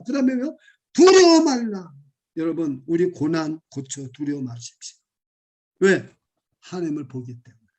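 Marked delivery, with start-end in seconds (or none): 0.9-1.9 emphatic proclamation. Acted. Preacher proclaims scripture emphatically.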